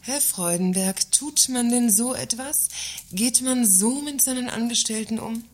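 a cheeky parting shot dictated for the boss; mocking reproach. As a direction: needle him with sarcastic indignation. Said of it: "Nur ein kleiner Spruch".

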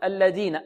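الذين with ذ hardened towards a "d"; imitating a student's stopped ذ in الذين; student's mispronounced ذ. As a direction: say الذين as "alladina", tongue tip held back. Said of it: "بعض الطلاب يقول".

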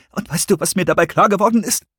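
high, agitated question; a touch of quaver, pitched high; trembling voice. A narrator's reading. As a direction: ask it as if trembling. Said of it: "mit bebender Stimme".

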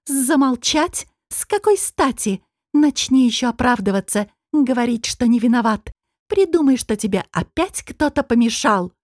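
high, mocking outrage; angry tirade. Furious woman mocking the demon's excuses, high and scornful. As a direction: fling each question at him. Нетали berates him.

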